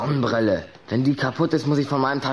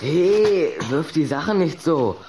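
sharp protest; 3 semitones higher, slower than usual. Acted. Boy scolds friend throwing things.

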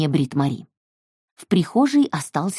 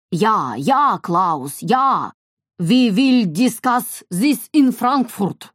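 yelling into phone; 4 semitones higher, much slower than usual. A narrator's reading. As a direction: bark orders down the phone. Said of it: "ор в телефон по-немецки".

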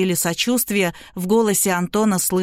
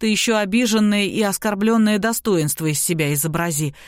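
plain reading voice

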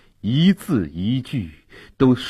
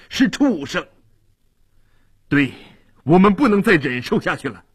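fervent loud speech; 4 semitones higher than usual. Acted. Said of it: "热烈地大声地说".

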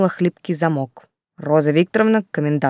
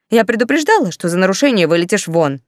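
rising anger; 3 dB louder than usual. Acted. Commandant's climactic warning.

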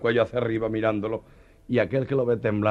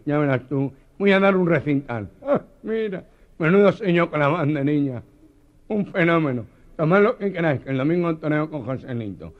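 higher, louder show-off boast; bragging; 7 semitones higher, 6 dB louder than usual. Retold or imitated. The Meloja boasting in the bars of Madrid. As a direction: crow about it to everyone.

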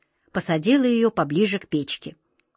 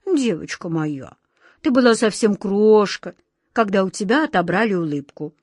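tender. Acted. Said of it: "взглядом, полным нежности".

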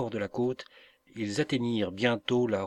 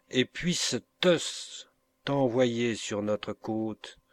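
slow solemn curse; slower than usual. Acted. Mother curses him slowly.

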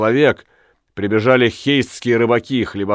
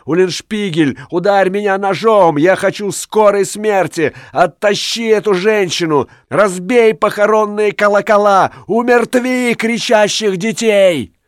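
very high, anguished wail; frantic high-pitched pleading; crying for mercy; 10 semitones higher than usual. A narrator's reading. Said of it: "кричал Рыбник".

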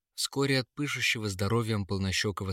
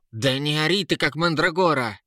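louder and higher scolding; angry shout; 6 semitones higher, 5 dB louder than usual. A narrator's reading. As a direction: snap at the screaming son. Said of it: "закричала Ера".

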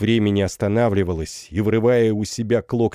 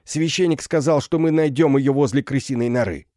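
distant shout; 6 semitones higher than usual. Acted. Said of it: "чей-то голос крикнул издали".

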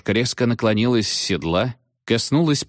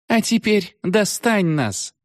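much higher, slow mocking witch voice; taunting witch; 14 semitones higher, slower than usual. A narrator's reading. The witch jeering at the boys, taunting. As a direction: jeer as you ride off.

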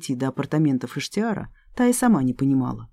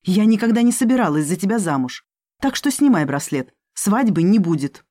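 hissing; 3 semitones higher, 3 dB louder than usual. Acted. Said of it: "прошипела Элина".

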